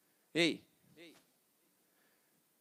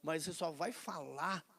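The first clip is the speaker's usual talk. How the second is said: God conceding. Retold or imitated. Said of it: "Aí Deus falou assim".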